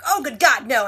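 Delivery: playful burst of alarm in a retelling; mock alarm. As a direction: imitate a panicked objection. Retold panicked reaction to the book.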